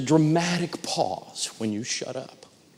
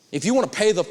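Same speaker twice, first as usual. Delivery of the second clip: ordinary talk, nothing marked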